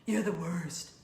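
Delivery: put-on slow disgusted teenage whine; teen groan. Mom inviting viewers to groan at someone. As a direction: groan it like an eye-rolling teen. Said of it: "roll your eyes and go".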